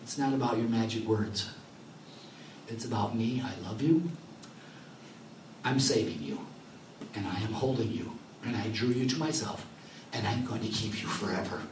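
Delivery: tender voice of God. Retold or imitated. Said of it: "the light switch said this".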